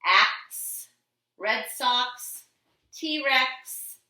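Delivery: "axe", "Red Sox", "T-Rex", "box" called out loud and high; loud word list. Shown as a demonstration. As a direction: call each word out to the class. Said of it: "go over them one more time".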